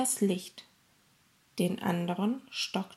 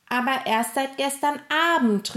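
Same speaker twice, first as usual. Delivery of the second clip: higher, mildly raised interjection; calling out; 5 semitones higher, 3 dB louder than usual. A narrator's reading. Gustav exposing the thief's story, calling out. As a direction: cut in with a lively objection. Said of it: "rief Gustav".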